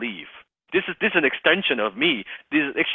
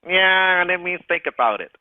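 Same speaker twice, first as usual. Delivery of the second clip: high whining prospect; whiny voice; 6 semitones higher than usual. Pretend. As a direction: whine like a reluctant buyer. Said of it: "I'll do the whiny voice first".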